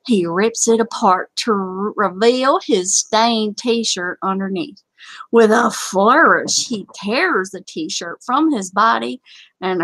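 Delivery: a touch of Southern comic narration; Southern accent. Acted. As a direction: read the tale with a Southern twang. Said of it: "I did my Southern accent".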